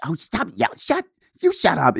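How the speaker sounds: high-pitched imitation of family squabbling; mock affectionate bickering. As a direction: playfully snap back, mimicking mother and son. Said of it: "give each other shit".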